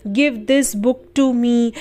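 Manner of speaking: each word slow and clear; slow example. Shown as a demonstration. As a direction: read it slowly for learners. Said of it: "यह किताब मुझे दे दो". (धीरे-धीरे साफ़ उदाहरण)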